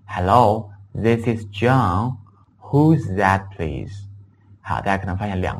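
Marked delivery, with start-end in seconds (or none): 0.1-4.1 slow model phone answer. Shown as a demonstration. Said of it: "我们可以说".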